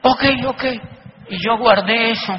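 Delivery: loud, laughing at his own humiliation; laughing embarrassment. Real, not acted. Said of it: "me sentí tan chiquitito". (riendo avergonzado, más fuerte y agudo)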